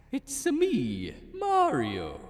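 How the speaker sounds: high, loud cartoon Italian accent; thick Italian accent. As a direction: announce yourself proudly, Italian style. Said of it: "he said in a thick Italian accent".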